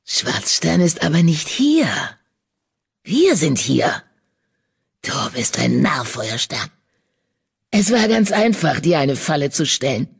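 villain murmuring a mock whisper; sinister murmur. A narrator's reading. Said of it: "flüsterte er ihm ins Ohr".

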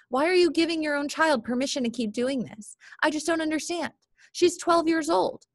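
angry stepmother's rant, narrated; indignant outburst. Acted. Lisa angrily confronts Dad at breakfast.

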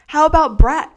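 called out high and loud. Acted. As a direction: tease from across the room. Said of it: "called Rocky".

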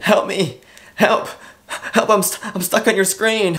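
high, loud pretend call for help; mock cry for help. Vlogger pretending to be stuck on screen, mock shouting. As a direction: yell it like you're trapped inside the screen. Trapped-on-screen bit, calling out.

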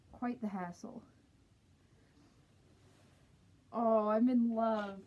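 through a mascot head; muffled inside costume head. Real, not acted. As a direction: voice damped by fursuit. Seen 2: Full costume head covers the speaker's face throughout the labelled words.

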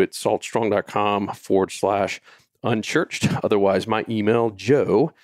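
winded from walking around; short of breath while pacing; running out of air. Real, not acted. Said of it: "I'm running out of breath here".

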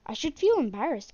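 loud, emphatic embarrassment; mortified and emphatic; embarrassed. Real, not acted. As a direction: own up to it, leaning hard on "feel". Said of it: "I feel the most embarrassed".

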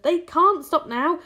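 high, loud, drawn-out insistence; urgent shout. A narrator's reading. James refusing to let spinners stop, urgent shout.

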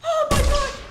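breathless high exclaim; shaken exclaim. Real, not acted. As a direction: gasp it out, still rattled. Aftermath of attack, shaken.

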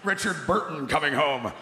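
put-on hammy theatrical English accent; grand Richard Burton homecoming; fake English accent. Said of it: "bullshit Englishy sounding accent".

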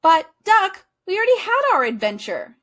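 loud high call, a bit worried. A narrator's reading. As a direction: call after him as he runs off. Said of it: "he called".

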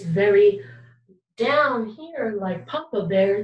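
low-pitched, slowing demonstration; deep, drawn-out big bear pitch; low sound. Shown as a demonstration. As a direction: drop the voice right down low. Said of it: "it's called a low sound".

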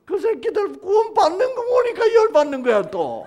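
high, loud indignant telling; preacher fired up over Jonah; heated preaching. Real, not acted. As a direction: hammer Jonah's petty rage. Preacher mocks Jonah's anger.

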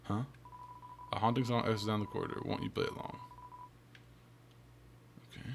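normal talking voice

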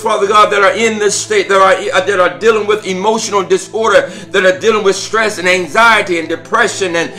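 prayer. Real, not acted. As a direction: pray aloud over the listeners.

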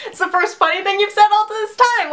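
words said through a laugh. Retold or imitated. Teasing the date she thinks is joking, laughing. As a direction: laugh while teasing him. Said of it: "I laughed. I was like".

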